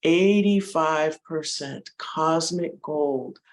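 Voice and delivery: unhurried meditation guide, lingering on key words with long pauses; guided meditation. Acted. Guide leading listeners into breath and heart, measured meditation voice. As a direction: ease listeners into stillness, step by step.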